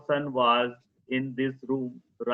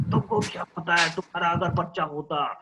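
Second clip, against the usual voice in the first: father shouting; 3 semitones higher than usual. Acted. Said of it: "उसके पिता चिल्लाए जा रहे हैं".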